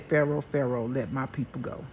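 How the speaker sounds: milder retold God voice, no boom. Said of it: "I can't say it the way he did".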